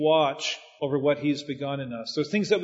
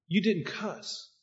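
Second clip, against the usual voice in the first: amazed; 2 semitones higher, 6 dB quieter, much slower than usual. Retold or imitated. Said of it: "he was amazed about what".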